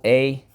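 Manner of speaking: "a" said high and loud on its own; second syllable a. Shown as a demonstration. Teacher stressing the middle syllable of enable. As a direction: pop out the long "a". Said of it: "Second syllable".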